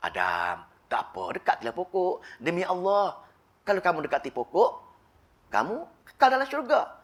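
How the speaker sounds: soft, coaxing voice of Satan luring Adam; tempting whisper. Acted. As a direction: lure him in softly, close to the ear. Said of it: "Aku hanya membisik pada kamu saja".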